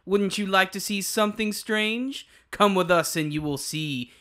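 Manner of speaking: slow, spooky Halloween host; creepy trick-or-treat welcome; jack o lantern voice. Acted. Spooky Halloween show opener.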